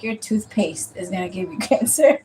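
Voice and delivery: quoting the aunt through a laugh; aunt's line with a laugh slipping in; aunt's warning, laughing. Retold or imitated. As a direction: chuckle on the word cancer. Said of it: "my aunt was like".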